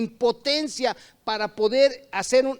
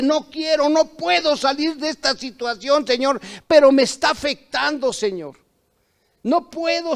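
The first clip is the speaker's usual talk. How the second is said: pleading prayer; 3 semitones higher than usual. Retold or imitated. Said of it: "le dices inclusive".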